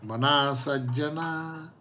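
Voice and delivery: slow, measured verse recitation; shloka recitation. Acted. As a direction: draw out each syllable of the verse. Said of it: "असे समर्थ रामदास म्हणतात".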